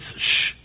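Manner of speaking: "sh" as a soft hushed sh, not an s; the sh sound. Shown as a demonstration. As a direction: hiss out "sh" like the end of Rosh. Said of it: "they don't pronounce it the S S".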